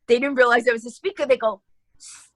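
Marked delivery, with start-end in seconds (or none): 2.0-2.3 excited alarm. Retold or imitated. Staff telling her people are dragging chairs in, high excited shout. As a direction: blurt it out in disbelief. Staff reporting the room commotion.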